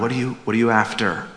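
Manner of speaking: soft, quick and gracious; Jesus gently asking the people nearby; gracious question. Retold or imitated. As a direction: put it gently to the crowd around. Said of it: "but with a gracious tone".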